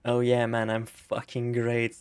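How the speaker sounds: fake nonchalance. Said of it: "keeps lying".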